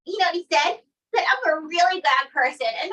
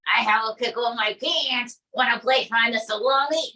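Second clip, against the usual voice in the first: Trump impression. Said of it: "Donald J Trump".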